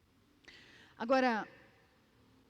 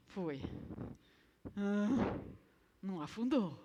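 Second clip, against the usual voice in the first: normal talking voice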